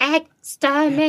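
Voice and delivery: high mechanical war cry; Dalek. Acted. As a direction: stretch each syllable like a killer robot. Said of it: "That's the Dalek".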